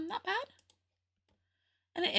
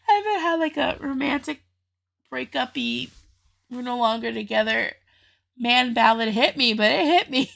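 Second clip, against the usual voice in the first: real tears catching in the voice, pushing through; choked up; 3 dB louder than usual. Real, not acted. Reviewer choked up by a breakup ballad. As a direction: fight the lump in your throat and keep talking. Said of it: "a little choked up here".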